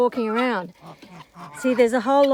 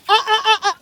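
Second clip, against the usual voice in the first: sharp warning; 10 semitones higher, 6 dB louder, faster than usual. Real, not acted. Warning the dog off.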